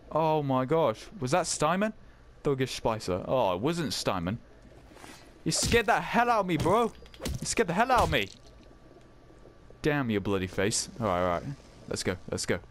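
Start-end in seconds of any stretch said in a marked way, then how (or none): 5.4-8.3 laughing off fear. Real, not acted. After the jump scare.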